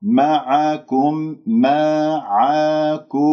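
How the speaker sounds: معكم very slowly, each vowel given full value; complete vowels. Shown as a demonstration. Teacher drills complete vowels: very slow, even معكم. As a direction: sound out every short vowel of معكم fully. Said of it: "أتم الحركات".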